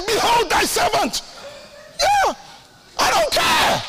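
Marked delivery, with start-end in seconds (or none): 0.1-1.2 mock solemn prayer. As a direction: proclaim it half laughing. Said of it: "I say".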